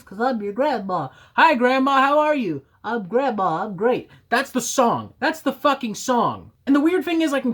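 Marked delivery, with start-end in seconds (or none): 0.0-4.1 imitating grandma skit. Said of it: "except he's talking like this".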